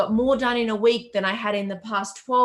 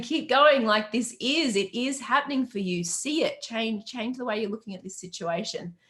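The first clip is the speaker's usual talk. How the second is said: coach's encouragement; 3 semitones higher than usual. Retold or imitated. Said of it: "I'm there in your ear, aren't I? Saying".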